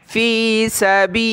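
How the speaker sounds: सबीलिल्लाहि with a thin, light ल्ला; tajweed thin lam of Allah. Shown as a demonstration. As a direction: keep ल्ला thin after the zer. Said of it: "लफ्ज़ अल्लाह को पतला करना है".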